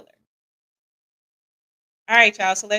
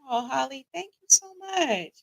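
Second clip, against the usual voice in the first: touched, getting emotional; 5 semitones higher than usual. Real, not acted. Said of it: "Don't have me getting sensitive".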